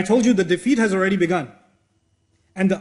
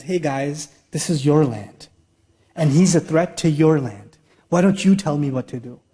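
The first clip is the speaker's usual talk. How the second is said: lower, casual retelling of the tyrant's plea; offhand humble boss asking advice; lowered friendly Pharaoh; 4 semitones lower than usual. Retold or imitated. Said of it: "he comes down from his".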